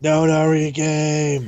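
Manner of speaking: slow, drawn-out menacing voice; ominous villain voice. Shown as a demonstration. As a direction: say it like a sinister captain. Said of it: "repeating name in put-on voice".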